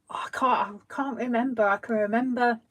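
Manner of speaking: breathy whisper to herself; whispered aside. Real, not acted. Trying to remember the word, whispered to herself. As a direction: whisper it while trying to recall.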